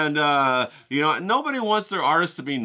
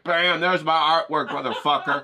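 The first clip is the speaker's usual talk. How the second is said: mock showing off; 4 semitones higher, 4 dB louder than usual. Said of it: "I'm like".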